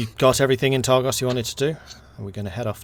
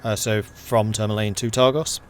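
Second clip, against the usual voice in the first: game master narration; 4 dB louder than usual. Acted. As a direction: paint the snowy road calmly. GM narrates the journey.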